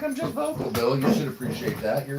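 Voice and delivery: voicing the dog. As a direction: squeak it out like a self-righteous pet. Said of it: "She's like".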